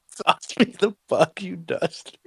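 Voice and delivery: high, loud hammed-up Canadian hockey accent. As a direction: bellow it like a rink-side Canadian hockey player. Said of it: "who could do the best, um, hockey accent".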